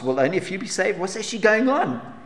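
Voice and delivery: a lightly voiced anxious questioner, pitched a little up; asking as the puzzled follower would; questioning voice. Preacher voicing a worried follower's questions, mild anxious asking. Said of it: "this person asks".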